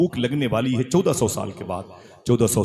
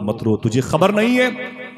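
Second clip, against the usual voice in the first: rising joyful comfort; 3 semitones higher, 4 dB louder than usual. Acted. Unborn child comforts mother.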